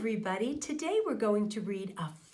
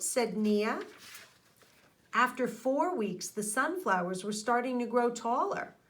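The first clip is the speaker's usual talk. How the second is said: put-on steady storybook read-aloud for young listeners; reading to children. A narrator's reading. Teacher reading a garden story to her class, storybook narration.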